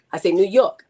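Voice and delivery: New Yorker proudly showing the accent. Shown as a demonstration. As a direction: insist on it in your New York accent. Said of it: "read it with my accent".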